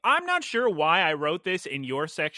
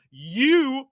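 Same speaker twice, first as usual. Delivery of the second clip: sharp pointed You, higher and louder; accusing snap; 8 semitones higher, 6 dB louder than usual. Retold or imitated. Rude customer snapping You at the cashier. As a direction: jab the word You at the cashier. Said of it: "No, she says".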